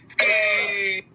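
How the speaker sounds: loud call of a name. Real, not acted. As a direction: call his name loudly. Calling out to Steve.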